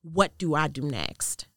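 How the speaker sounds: slow, measured question; calm earnest asking. Retold or imitated. Woman acknowledging God asks for guidance, calm and earnest. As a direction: ask God plainly and unhurriedly.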